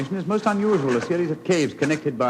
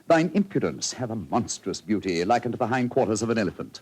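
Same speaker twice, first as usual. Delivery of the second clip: quoting verse; 4 semitones lower than usual. Acted. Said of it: "an apposite quotation".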